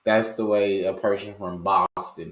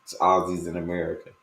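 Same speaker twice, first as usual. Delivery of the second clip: ordinary talk, nothing marked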